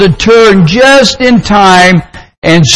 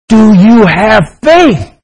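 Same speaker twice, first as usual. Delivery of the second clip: slow, higher, measured question from on high; authoritative voice; 4 semitones higher, slower than usual. Acted. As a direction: lightly play a commanding heavenly voice. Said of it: "an authoritative voice came down and said".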